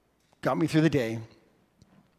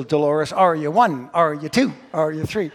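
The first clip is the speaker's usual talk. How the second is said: mock school birthday routine; 4 dB louder than usual. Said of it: "That would be obnoxious".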